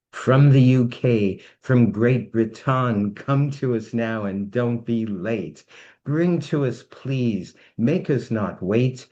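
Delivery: rhymed announcer chant, ringing start; summoning spell. Acted. Host summoning the next entertainer in rhyme, grand announcement.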